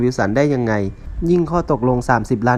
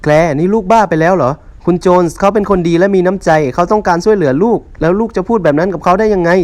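scolding mother; 6 semitones higher, 5 dB louder than usual. Acted.

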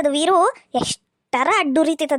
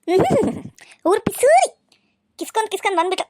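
spiteful outburst; 2 semitones higher than usual. Acted. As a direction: spit the insult out under her breath, then flare. Stepmother curses girl behind back.

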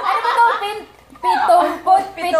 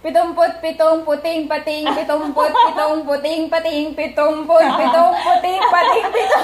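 fast tongue twister. Shown as a demonstration. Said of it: "five times, mabilis".

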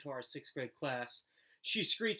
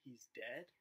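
gulping fear; 11 dB quieter than usual. A narrator's reading. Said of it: "I gulped".

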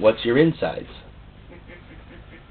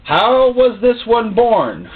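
slow pointed question; 8 semitones higher, 5 dB louder, much slower than usual. Retold or imitated. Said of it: "go to your parents and say".

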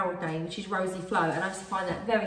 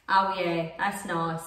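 put-on lower, old London voice; old London accent; 5 semitones lower, much slower than usual. Shown as a demonstration. Demonstrating partner's nan to him, old London accent. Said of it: "like an old London accent".

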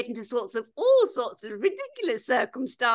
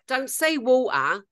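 stuck-up correction; 4 semitones higher, 4 dB louder than usual. Retold or imitated. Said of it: "a right stuck-up tart".

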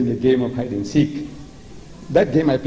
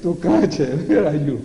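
playful calling; 3 semitones higher, slower than usual. Retold or imitated. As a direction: pretend you cannot see him. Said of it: "I say".

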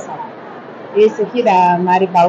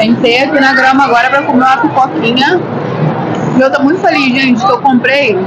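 talking with a mouthful; eating popcorn while talking; mouth full; 3 semitones higher than usual. Real, not acted. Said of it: "não posso falar de boca cheia".

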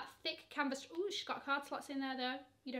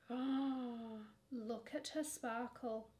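awed whisper; 3 semitones lower, 5 dB quieter, much slower than usual. Real, not acted. Awed whisper at crystal bag.

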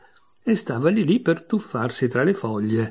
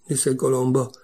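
ordinary delivery, nothing marked

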